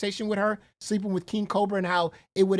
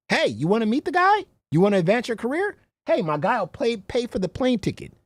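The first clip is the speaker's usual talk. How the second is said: mock pushy pitch; 3 semitones higher, 3 dB louder than usual. Acts out the matchmakers' sales pitch.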